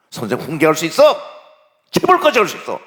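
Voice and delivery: loud, high, emphatic scolding; stern rebuke. Acted. Principal tells a teacher discipline is allowed, loud and stern. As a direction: rise into a forceful shout.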